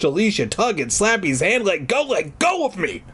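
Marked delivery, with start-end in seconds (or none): 1.6-3.0 put-on mildly angry child, pitched up; angry cry. Child tugging free of the dummy's hand, angry cry. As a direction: protest crossly in a higher voice. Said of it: "Alicia cried angrily".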